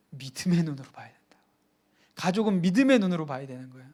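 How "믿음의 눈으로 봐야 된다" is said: whispered answer. Shown as a demonstration. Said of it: "어떻게 봐야 된다고요?".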